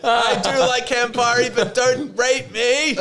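high, loud, slow mock-frightened plea; mock scared. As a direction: plead up high in hammed-up fear. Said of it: "It's like".

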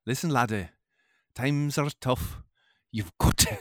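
Scottish-accented politician impression; measured pep talk in a put-on Scottish accent; Obama. Shown as a demonstration. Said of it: "maybe a Scottish Obama".

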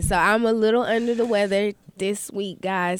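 blocked nose, sick voice; stuffy nose. Real, not acted. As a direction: talk through a stuffed-up nose. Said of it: "I can't breathe out of my nose".

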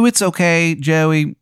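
high, squeaky reassurance; Steve's voice. Acted. GM voicing Steve forgiving Joey, high squeaky voice. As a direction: soothe him in the Steve voice. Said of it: "And he goes".

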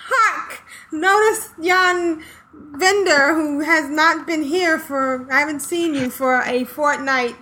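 slow, hammy stage-actor delivery; lightly voiced Elizabethan player; mock Shakespearean actor. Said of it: "only in Shakespearean plays".

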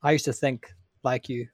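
quoting a game guard, cracking up; can't keep a straight face; laughing through a quote. Retold or imitated. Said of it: "Couldn't even say it with a straight face".

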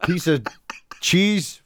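halting, badly faked American insult; lightly put-on American, groping for the insult; mock American accent. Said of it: "It's me trying to be an American".

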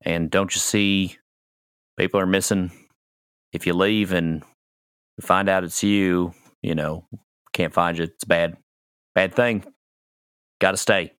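lightly voiced, apologetic doorman; doorman character. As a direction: explain it haltingly, just doing the job. Game master plays the doorman.

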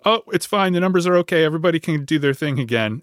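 mock breezy dismissal, starting high; breezy all-clear. Officials lifting lockdown to everyone, mock breezy.

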